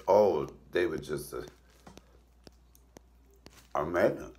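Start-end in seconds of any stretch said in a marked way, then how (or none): none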